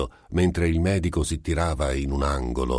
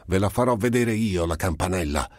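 trying to shout; 5 semitones higher than usual. Acted. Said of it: "tentava ancora di gridare".

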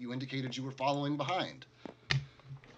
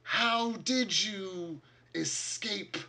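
creepy creature voice; 6 semitones higher, much slower than usual. Acted.

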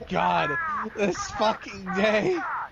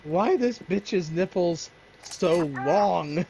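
slow quote; much slower than usual. Retold or imitated. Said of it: "I asked".

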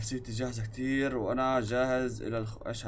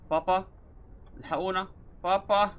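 mock scared kid; 4 semitones higher than usual. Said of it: "هو اللي باللعبة مش انا".

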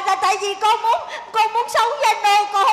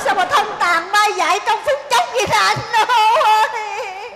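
mock lament; 2 semitones higher than usual. Mock lament over groom.

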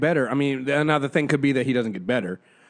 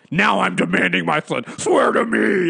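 mock angry demand; 2 semitones higher than usual. Imitating the mayor demanding to see his son, mock angry. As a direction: puff up and demand it, half-joking. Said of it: "put a little bass in that voice and got a little angry".

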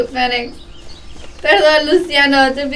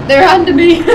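playful alarm; 6 semitones higher than usual. Real, not acted. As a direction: raise the alarm in mock panic. Repeated as mock panic, then laughter.

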